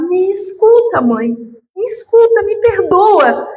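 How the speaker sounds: slow, high pleading to her dead mother; tearful plea. Retold or imitated. Daughter begging her late mother to listen, in tearful pleading. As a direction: beg slowly, voice rising in tears.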